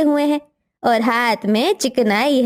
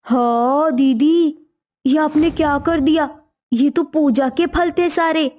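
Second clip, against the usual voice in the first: shocked; 3 semitones higher than usual. Acted. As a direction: stretch it out, aghast at what she did. Sister-in-law ate puja fruit.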